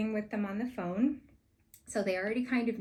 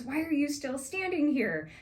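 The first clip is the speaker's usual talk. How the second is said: irritated chef; 7 semitones higher, 4 dB louder than usual. Retold or imitated. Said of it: "He was so mean".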